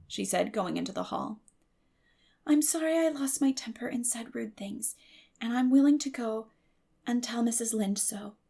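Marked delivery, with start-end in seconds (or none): 2.5-8.4 put-on higher, meek girl's apology; Anne, contrite. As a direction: say sorry humbly.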